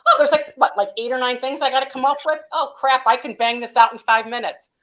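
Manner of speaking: high, loud, hammed-up panicky client voice; mock overwhelmed client. Consultant mimicking a client who underestimates the work, loud and high. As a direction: play the client who thinks it's a quick job.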